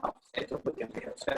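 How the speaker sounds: faint, choppy call audio; cutting out over the line; glitching audio. Real, not acted. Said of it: "suaranya agak putus-putus bentar".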